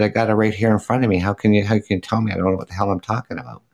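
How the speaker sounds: fast, exasperated comeback; retelling his reply to a heckler who texted in; rapid incredulous retort. Retold or imitated. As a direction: fire back in disbelief. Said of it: "I said".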